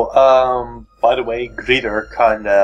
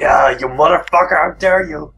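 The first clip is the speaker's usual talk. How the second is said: louder, higher hammed-up indignation; mock outrage; 5 semitones higher, 3 dB louder than usual. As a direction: play it like a betrayed hero. Mock outrage at dropped friend.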